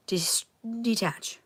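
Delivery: slow whisper, barely voiced; a slow whisper to calm herself down. Real, not acted. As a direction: breathe the word out slowly in a whisper. Coaching self to calm down.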